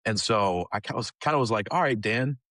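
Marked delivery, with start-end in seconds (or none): 1.7-2.4 higher, grudging mock surrender; reluctant giving in. Yielding grudgingly to his leader Dan, higher and grudging. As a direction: give in with a sigh of reluctance. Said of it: "a very half-hearted".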